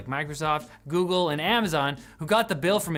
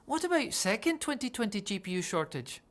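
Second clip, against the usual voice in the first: scalper voice; 3 semitones higher, 6 dB quieter than usual. Pretend. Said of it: "if scalpers hadn't said".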